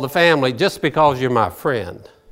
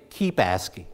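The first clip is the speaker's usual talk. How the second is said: soft urging; 10 semitones lower, 7 dB quieter than usual. Shown as a demonstration. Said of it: "if I were to say".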